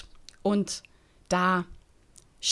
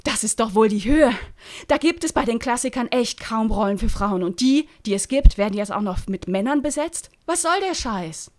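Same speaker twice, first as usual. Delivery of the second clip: angry; 4 semitones higher, 6 dB louder than usual. Acted. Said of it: "wütend".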